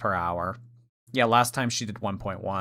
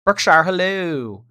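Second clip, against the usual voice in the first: loud, high hello; excited greeting; 7 semitones higher, 7 dB louder than usual. Real, not acted. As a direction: call out a bright greeting.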